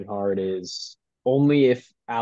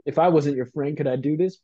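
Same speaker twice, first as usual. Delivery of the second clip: louder, slightly higher pleading; rat's pleading voice; 5 semitones higher, 6 dB louder, faster than usual. Acted. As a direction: play the wobbly water rat asking. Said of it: "Just be like".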